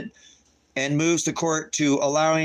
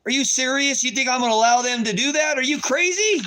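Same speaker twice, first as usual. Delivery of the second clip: much higher, louder incredulous outburst; outraged disbelief; 10 semitones higher, 3 dB louder than usual. Real, not acted. Refusing to testify against his son, outraged high disbelief. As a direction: shriek your disbelief at the idea.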